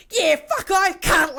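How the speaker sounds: high, loud hammed-up Australian bogan; bad bogan accent. Friend mocks an actress's bogan Australian accent. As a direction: overdo a crude Australian drawl. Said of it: "the worst Vogan accent".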